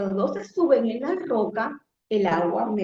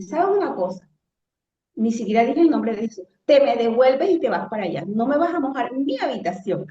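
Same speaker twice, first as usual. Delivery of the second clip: authoritative command; 2 semitones higher than usual. Retold or imitated. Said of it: "me llené como de una autoridad".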